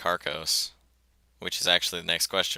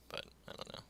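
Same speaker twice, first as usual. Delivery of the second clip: whisper; 23 dB quieter, faster than usual. Real, not acted. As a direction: fade into a whisper. Trails off unsure.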